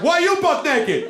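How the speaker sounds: very high, drawn-out echo; mock the question back, slow and squeaky-high; exaggerated high-pitched retort; stranger throwing it back. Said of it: "He was like".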